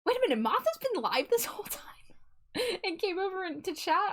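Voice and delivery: surprised whisper. Real, not acted. Surprised discovery mid-stream.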